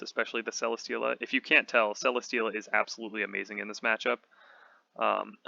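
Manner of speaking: slightly hoarse, voice going. Real, not acted. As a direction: talk through a fading, hoarse voice. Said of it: "losing my voice again".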